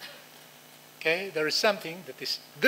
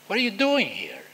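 mild mock anger; 4 semitones higher, 4 dB louder than usual. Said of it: "He is angry".

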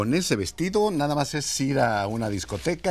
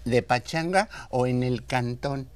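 Mexico City slang; 3 semitones higher than usual. Retold or imitated. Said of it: "la manera peculiar de los del D F, cómo hablan".

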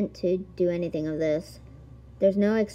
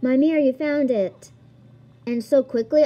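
villain voice; 5 semitones higher, 5 dB louder than usual. Acted. Reading villain's dialogue aloud.

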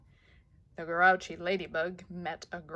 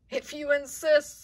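rhinoceros voice; 8 semitones higher, 5 dB louder than usual. Acted.

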